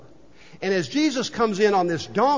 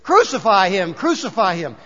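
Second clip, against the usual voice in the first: restrained mock shout of a crowd; crowd's shout; 5 dB louder than usual. Preacher voicing the Good Friday crowd, half shouted. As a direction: call it out firmly, imitating a mob. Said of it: "what did they shout then?".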